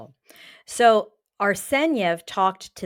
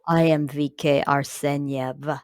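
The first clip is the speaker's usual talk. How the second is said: put-on Russian accent; 3 semitones lower than usual. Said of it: "worst Russian accent ever".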